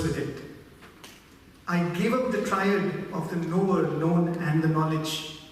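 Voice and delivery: verse reading. Acted. Reads out a translated verse.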